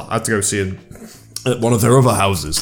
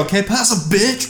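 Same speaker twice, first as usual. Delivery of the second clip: mock rude brush-off; 8 semitones higher, 3 dB quieter than usual. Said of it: "you just go".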